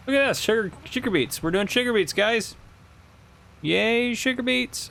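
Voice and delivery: high, bright-eyed cheer for the crop; excited cheer. Real, not acted. Gamer cheering his viewers about sugar beets, excited.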